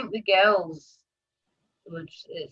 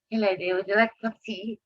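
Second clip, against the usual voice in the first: genteel mum; 4 semitones higher, faster than usual. Retold or imitated. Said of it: "My mum's side, it's like".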